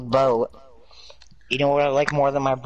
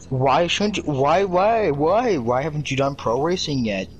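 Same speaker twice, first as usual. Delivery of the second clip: mock nagging; 3 semitones higher than usual. Player mimicking the game's voices, mock nagging. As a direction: imitate a pestering voice, pitch jumping up.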